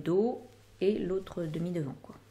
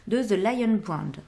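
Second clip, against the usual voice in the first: the brand name said slowly and a bit louder, with a put-on English accent; self-mocking English accent; 5 dB louder, slower than usual. Real, not acted. Knitting vlogger naming a yarn brand to viewers, in a self-mocking English accent. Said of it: "avec mon bel accent".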